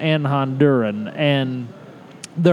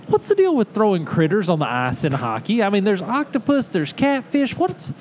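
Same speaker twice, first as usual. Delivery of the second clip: stand-up comic voice; 3 semitones higher than usual. Acted. Seinfeld-style comedian bit.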